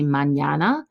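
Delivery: mañana with ñ sounded as ny, as in canyon; Spanish pronunciation. Shown as a demonstration. Teacher demonstrating the ñ in mañana. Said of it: "makes the N Y sound".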